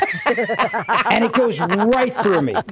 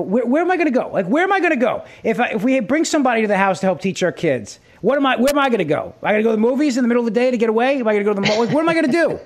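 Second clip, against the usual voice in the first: higher, pleading run of questions; retold exasperation, voice jumping up on each question; exasperated venting; 3 semitones higher, faster than usual. Fed-up husband venting to his wife about being trapped, exasperated.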